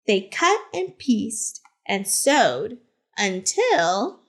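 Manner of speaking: gentle, expressive picture-book narration; reading to children. A narrator's reading. Teacher reads Harvey Milk's story to the class, storytelling voice. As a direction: tell it like story time on the rug.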